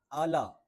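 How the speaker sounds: "اعلیٰ" said as a loose ala; wrong opening syllable. Shown as a demonstration. Teacher shows learners the mistake, loose "اعلیٰ". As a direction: open up al into "اعلیٰ", a-la. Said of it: "یہ بھی نہیں پڑھنا".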